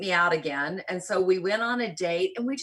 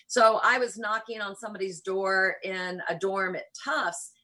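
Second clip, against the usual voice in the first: usual speaking voice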